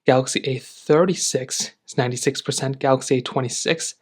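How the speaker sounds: breathless after running; winded, catching breath between numbers. Real, not acted. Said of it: "I'm out of breath 'cause I ran earlier".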